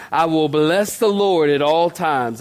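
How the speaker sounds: measured recitation, slow; slow congregational reading. Shown as a demonstration. Pastor leading the congregation in reading the verse aloud, slow and measured. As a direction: read slowly with the church. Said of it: "Can y'all read it with me?".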